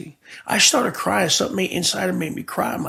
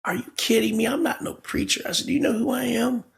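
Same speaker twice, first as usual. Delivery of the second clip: mock defiance; 6 semitones higher than usual. Retelling his angry disbelief.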